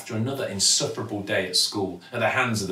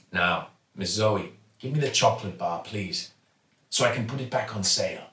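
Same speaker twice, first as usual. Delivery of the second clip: kindly shopkeeper. Acted. Raj asks for chocolate.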